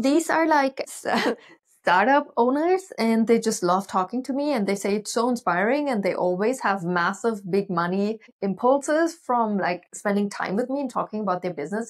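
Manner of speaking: retold eager enthusiasm with a laugh; excited gushing. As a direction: gush about how much they love talking to her. Excitedly defending herself to the mentor.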